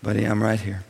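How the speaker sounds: tender father. Retold or imitated. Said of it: "And I'll be saying".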